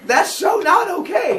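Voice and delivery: scolding wife. Acted. Rhea scolding.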